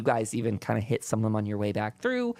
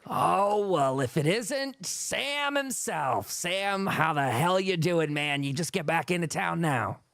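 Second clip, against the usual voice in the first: raised, hearty bartender welcome; Tom the friendly townsman; 5 semitones higher, slower than usual. Acted. GM as Tom greeting returning Sam, hearty. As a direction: greet an old friend warmly, a little higher.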